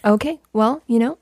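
measured, polite mock reprimand with pauses; very nice, calm. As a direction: lightly imitate a composed, courteous host. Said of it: "he would be very nice".

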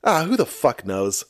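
mildly irritated, dismissive sigh of a line; annoyed Batman. Retold or imitated. Batman giving up on Robin's question, annoyed. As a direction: imitate a superhero who can't be bothered. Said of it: "very annoyed".

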